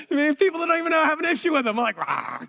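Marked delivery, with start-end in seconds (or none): 2.0-2.4 low, understated "rah" growl; half-hearted little growl of annoyance; mock growl. Preacher acting out his gripe to God, mock growl. Acting out own anger at people.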